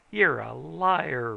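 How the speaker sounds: loud, very slow roar; loud slow furious roar. A narrator's reading. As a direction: roar it while swinging at him. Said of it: "roared Richards".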